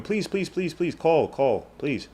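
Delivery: quiet repeated please, fading down; soft pleading. Real, not acted. Streamer quietly begging the chat to call, trailing off. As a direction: beg softly, almost under the breath. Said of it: "begging viewers softly".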